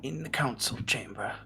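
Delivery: high, slow, far-off seer voice; high floating seer, slow and solemn; Ada the Seer. Acted. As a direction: speak like an ancient oracle, drawn out and lofty.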